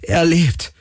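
very high, elated exclamation; jubilant. A narrator's reading. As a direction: cheer out the miracle. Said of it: "jubelte Galen".

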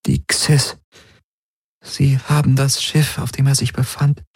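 put-on high, hushed young woman's voice; a grieving woman telling bad news; Ylana's voice. A narrator's reading. Ylana tells Garland her people's ship is lost, hushed.

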